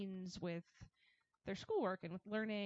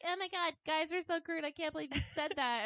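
higher, louder, pretend-scandalized girl; imitated scandalized gasping disbelief; mock prim outrage; 8 semitones higher, 4 dB louder than usual. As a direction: act shocked at how crude guys are. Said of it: "we all like to be like".

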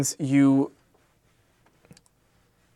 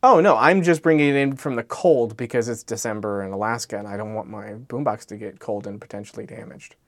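smooth good liar, not confrontational; calm, unhesitating fib; 3 semitones lower than usual. Retold or imitated. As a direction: say it calmly, without a trace of sarcasm. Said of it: "very calmly, not even, like, not sarcastic".

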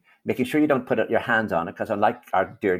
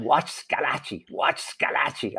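drawn-out, higher mock shout, held back in volume; slow, raised-pitch retold yell; imitated shouting; 4 semitones higher, slower than usual. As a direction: imitate a man calling out a warning, stretching it slowly. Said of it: "Jim Mitchell kept shouting".

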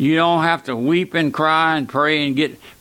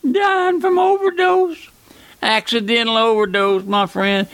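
impassioned preaching; 7 semitones higher than usual. Acted. Preacher decrying overdoses.

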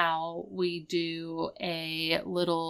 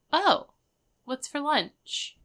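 breezy, unbothered, a bit slow; cool, calm and collected; 7 semitones higher than usual. Retold or imitated. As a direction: suddenly act totally unconcerned. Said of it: "cool, calm, and collected".

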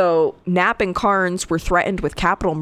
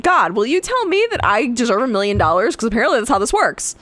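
mock prayer; 5 semitones higher than usual. Pretend request to God.

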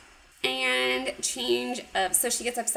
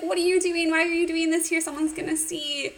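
flustered protest; 5 semitones higher than usual. Retold or imitated. Flustered hero quoted in recap.

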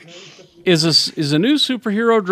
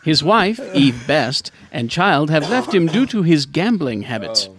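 lightly put-on British newsreader accent; BBC presenter; 2 semitones lower than usual. Host retelling the show's story, mock BBC British presenter. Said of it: "as a B B C presenter then".

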